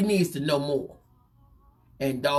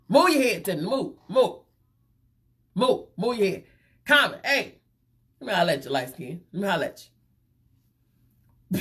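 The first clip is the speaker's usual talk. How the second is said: hammed-up repeat of Ced; 3 semitones higher, faster than usual. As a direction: shoo Tiffany aside in a playful squeal. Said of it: "Ced the Entertainer done said".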